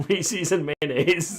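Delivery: Reese's said REE-seez, stretched out. Real, not acted. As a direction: stretch Reese's to rhyme with mayonnaise. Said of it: "Why do you say it like that".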